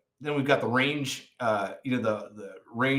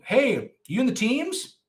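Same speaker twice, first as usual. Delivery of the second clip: high, slightly louder impression of a curious stranger; mimicked eager questioner; 9 semitones higher, 3 dB louder than usual. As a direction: imitate a nosy guy asking, pitched well up. Mimicking guys quizzing a supposed operator.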